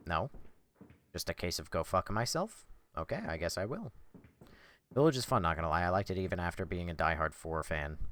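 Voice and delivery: usual speaking voice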